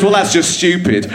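mildly hammed-up annoyance; mock angry. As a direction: play a miffed man dismissing it. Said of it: "gets really angry and says".

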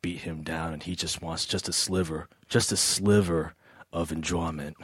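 low, soft Southern drawl; weary Southern farmer drawl. Shown as a demonstration. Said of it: "he's like".

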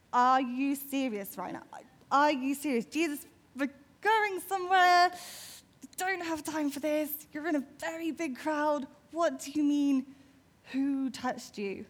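mock-exasperated friend who's in a hurry; exasperated disbelief. Peter to Jesus in the crowd, exasperated disbelief. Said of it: "he doesn't quite say it like that".

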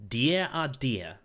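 slow, loud and surly; loud protest. A narrator's reading. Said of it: "he protested loudly".

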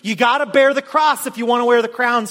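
cross hit hard as the key word; preaching emphasis. Real, not acted. Pastor drives home the gospel truth with stress on cross. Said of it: "here's the gospel truth".

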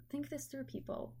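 soft exasperated aside; muttered exasperation. Retold or imitated. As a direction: grumble to yourself at customers. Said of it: "I was like".

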